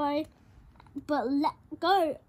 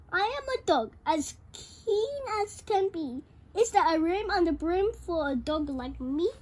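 eager dog voice; 2 semitones higher, 3 dB louder than usual. Acted. Dog character asks to join.

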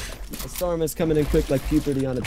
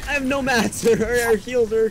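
still wound up; 8 semitones higher, faster than usual. Real, not acted. Aftermath of fight, still wound up.

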